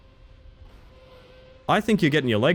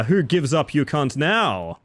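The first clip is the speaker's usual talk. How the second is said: gloating taunt; slower than usual. Real, not acted. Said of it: "Ah ha ha".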